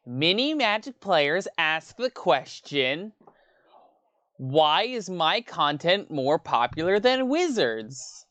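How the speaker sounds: slow, drawn-out lecturing intro voice, lightly done; a hint of the professor opening his video; Tolarian Community College guy impression. Streamer mimics the YouTube professor, slow lecturing voice. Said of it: "That's my impersonation of the Tolarian Community College guy".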